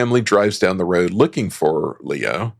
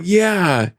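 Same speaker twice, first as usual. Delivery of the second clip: Siggy's line; 9 semitones higher than usual. Retold or imitated. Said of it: "And Siggy's like".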